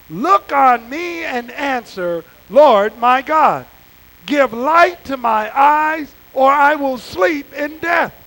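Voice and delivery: measured, slow psalm reading to the congregation; scripture reading. Acted. Preacher reading Psalm thirteen aloud to the church, slow and solemn. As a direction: read it slowly and earnestly, pleading. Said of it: "let's read it together".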